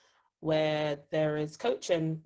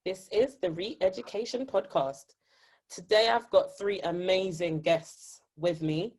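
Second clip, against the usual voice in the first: upbeat radio host welcome; 3 semitones higher than usual. Real, not acted. Host opens the podcast for listeners, radio voice. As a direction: greet the listeners with polished, lifted energy. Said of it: "your radio voice on".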